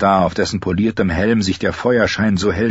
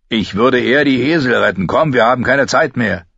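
raised, insistent voice; urgent refusal; 3 semitones higher than usual. Acted. Gendry refusing to free prisoners, urgent. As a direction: press to get moving at once. Gendry urges her to leave.

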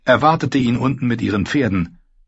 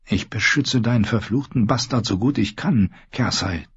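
bitter thought. Acted. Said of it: "dachte er verbittert".

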